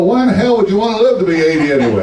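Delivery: quick, laughing, incredulous; laughing punchline. Retold or imitated. To the healthy old man, fast laughing disbelief. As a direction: rush it out through a laugh.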